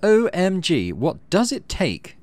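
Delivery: high, whiny disbelief, slowing at the end; a huffy teen who can't believe nobody's impressed; exasperated Mars. Acted. Mars whining at you for not being impressed, high and exasperated.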